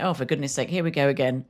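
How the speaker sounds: low, quiet fed-up aside; mock exasperation. Retold companion fed up with repeats.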